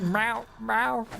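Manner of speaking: imitating cat meow. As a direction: meow lightly like the game's cat. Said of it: "the cats meows every single time".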